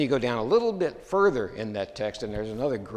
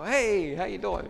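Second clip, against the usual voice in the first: bright friendly hello, pitched higher; cheery greeting; 9 semitones higher, 4 dB louder, slower than usual. Retold or imitated. Greeting the old adversary, cheerful and higher. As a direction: toss off a casual friendly hello.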